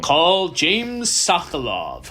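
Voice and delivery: slow, announcer-style name drop; lawyer ad voice. Retold or imitated. Finishing the lawyer ad parody, slow announcer delivery. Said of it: "the mesothelioma commercial".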